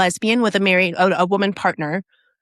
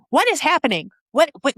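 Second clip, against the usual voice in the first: much higher, a retold, alarmed what is happening; panicked confusion; 8 semitones higher than usual. The teller, suddenly full of rage in the checkout line, in mock alarm. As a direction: relive the sudden shock of rage in a half-acted voice. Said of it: "I'm like".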